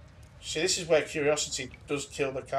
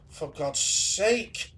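startled gasp; 4 semitones higher, much slower than usual. Real, not acted. Startled by game scare.

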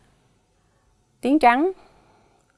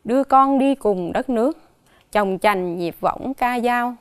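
poem recital. Acted. Teacher reading a poem about mother to the class, measured recital. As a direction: read it like a lullaby poem, gently paced.

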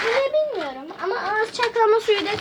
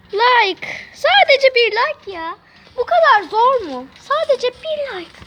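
pleading; 4 semitones higher, 4 dB louder, slower than usual. Real, not acted. Begging viewers for likes.

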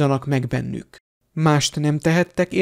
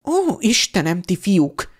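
exasperated; 3 semitones higher than usual. Acted.

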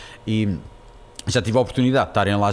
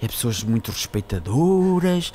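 slow, drawn-out granny praise; put-on dainty, genteel gushing; cute little old lady; slower than usual. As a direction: savour each phrase like a sweet old lady. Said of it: "com uma voz fofinha".

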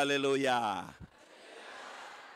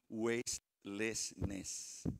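slow, drawn out; 8 semitones lower, 8 dB quieter, much slower than usual. Shown as a demonstration. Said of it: "W A S T E".

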